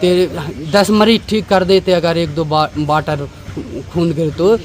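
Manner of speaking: a hint of the doctor shouting him down; retold doctor yelling. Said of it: "हमसे चिल्ला के doctor साहब बोले".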